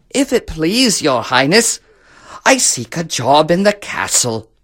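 humble beggar. Acted. Beggar asks the emperor for work, humble. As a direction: petition politely as a lowly beggar.

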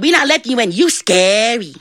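put-on high, childlike refusal; scared little devil. Little devils keep John out of hell, scared. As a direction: refuse like a frightened youngster, stretching the end.

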